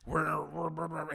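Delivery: retold panicky stammer; mock freak-out. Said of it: "he's freaking out at this point".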